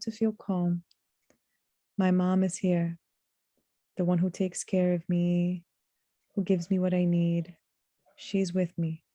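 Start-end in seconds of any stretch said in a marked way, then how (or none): 2.0-9.0 short, even phrases with pauses between; calmed child. Acted. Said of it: "The child calms down".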